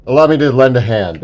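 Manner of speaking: smooth villainous charm; suave villain line. Acted. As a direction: deliver it like a gallant rogue. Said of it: "Do you twist your mustache as you say it?".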